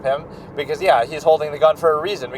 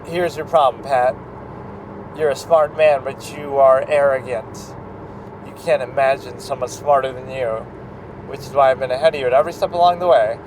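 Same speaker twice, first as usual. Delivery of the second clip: villain line with expression. Shown as a demonstration. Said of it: "You gotta kinda make the facial expression".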